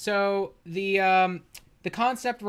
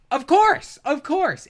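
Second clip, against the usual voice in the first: sarcastic of course; 10 semitones higher, 8 dB louder, slower than usual. Real, not acted. Sarcastic exclaim.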